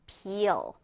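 "peel" with a drawn-out ee; long ee. Shown as a demonstration. Teacher models "peel" for learners, long ee vowel. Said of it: "이 발음을 길게 해줘야 됩니다".

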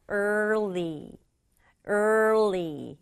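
early as er then li, tongue going back and forth; early pronunciation. Shown as a demonstration. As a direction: slide er into li. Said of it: "이렇게 왔다 갔다". (early 혀가 왔다 갔다)

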